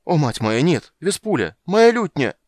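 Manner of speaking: rising, high, loud alarm; panicked cry. Acted. Poet crying out as his lute is thrown.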